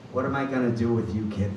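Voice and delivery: low, giggling mock despair; laughing mom. Mom in the car laughs as she scolds her son.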